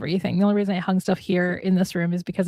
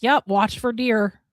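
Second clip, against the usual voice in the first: Minnesota farewell; slower than usual. Shown as a demonstration. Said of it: "enjoyed your Minnesota goodbye".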